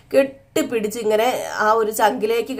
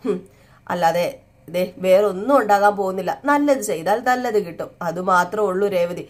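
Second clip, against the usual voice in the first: husband calmly reassuring his wife that truth will win. Acted. Sachi reassuring Revathi, quoted.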